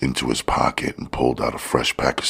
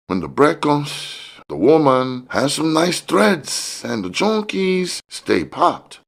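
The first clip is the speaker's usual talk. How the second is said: a much higher voice for the smiling fat man; George's voice. A narrator's reading. The dealer sizing up Curtis, high sly hustler voice.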